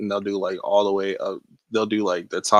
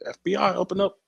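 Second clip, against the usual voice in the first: higher-pitched pretend agent call; mock FBI raid; 10 semitones higher than usual. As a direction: playfully announce a raid on your friend.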